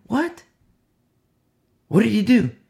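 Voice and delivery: high, loud burst of disbelief; an onlooker stunned at the stoning; shocked question. Acted. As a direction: recoil and demand an answer. Shocked onlooker in acted scene.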